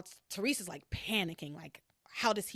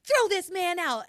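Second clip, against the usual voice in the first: calling mother; 7 semitones higher, 6 dB louder than usual. Retold or imitated. Ethan calling his mother.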